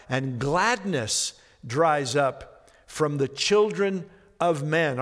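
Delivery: slow, solemn reading of scripture; measured, grave scripture reading. Acted. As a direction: read the prophecy with weight and mourning. Reading Joel aloud in sermon.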